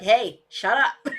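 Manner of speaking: slow, laughing, lightly voiced dog; voicing the dog. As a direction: play the dog, laughing, slowly. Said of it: "he's like".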